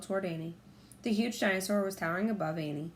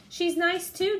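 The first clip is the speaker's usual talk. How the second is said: higher, louder, pleased; delighted; 11 semitones higher, 6 dB louder, slower than usual. A narrator's reading. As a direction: beam at him from the hilltop. Annie delighted calling.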